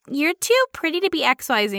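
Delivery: mock compliment leaning on TOO; imitated gushy remark, TOO stressed; imitated backhanded compliment. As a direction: say "TOO pretty" like a clueless flatterer. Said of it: "Like I said earlier".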